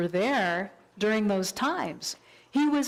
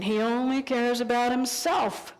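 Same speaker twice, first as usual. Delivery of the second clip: mock angry thought; 4 semitones higher, slower than usual. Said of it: "this angry voice".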